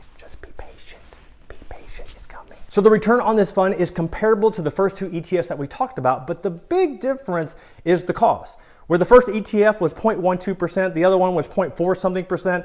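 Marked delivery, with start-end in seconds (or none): 0.2-2.6 hushed, very quiet stage whisper. Explaining investment funds to viewers, a whispered aside, whispering.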